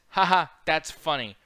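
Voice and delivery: slow, deadpan ha ha; quoting a lifeless forced laugh; dry fake laugh. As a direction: say it flatly, no real laughter. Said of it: "He literally says".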